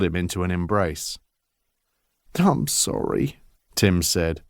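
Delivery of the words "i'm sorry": muffled into a shoulder. Acted. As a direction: speak muffled, face pressed close. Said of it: "his voice muffled by his father's shoulder".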